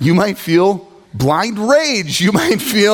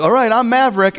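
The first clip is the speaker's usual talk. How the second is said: tag; 6 semitones higher than usual. Retold or imitated. Kids claiming a game role.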